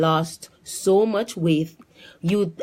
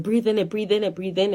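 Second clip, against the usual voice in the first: higher, repetitive urging; retold urgent instructions; urgent coaching; 5 semitones higher than usual. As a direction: imitate someone coaching a person through panic. Coworker urges her to breathe.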